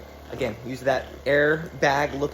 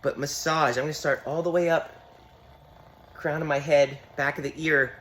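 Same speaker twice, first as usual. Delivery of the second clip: vibrating voice. Real, not acted. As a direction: voice shaking from massage gun. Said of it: "gonna sound nice and funny with my vibrating voice".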